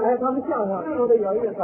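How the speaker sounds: quick laugh that stops abruptly; laugh cut short. Shown as a demonstration. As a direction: laugh briefly, then drop it at once. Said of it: "回去的也快".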